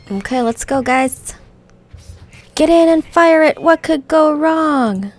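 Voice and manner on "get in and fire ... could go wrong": loud, higher reckless goblin. Acted. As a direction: cheer it on recklessly. Reads the goblin's lines.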